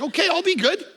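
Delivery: high, laughing mock-obedient promise. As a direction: chuckle it out like a scolded dad. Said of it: "I'm like".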